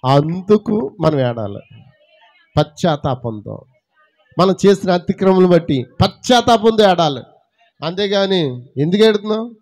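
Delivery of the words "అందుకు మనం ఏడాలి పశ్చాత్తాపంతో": solemn and slow. Acted. Solemn drop after the climax.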